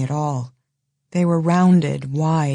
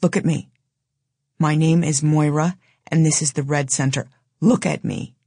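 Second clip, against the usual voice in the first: low and hard. Acted. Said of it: "Her voice was low but hard".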